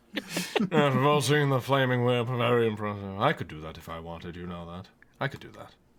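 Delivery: low, jealous grumble muttered under the breath. Voicing Frampton, a jealous character, muttering about the flaming whip: saying quietly under breath. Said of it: "Frampton says that quietly under their breath".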